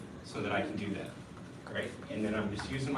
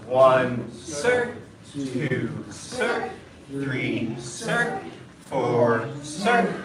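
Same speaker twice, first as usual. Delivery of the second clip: shouted drill count; 6 dB louder, much slower than usual. Real, not acted.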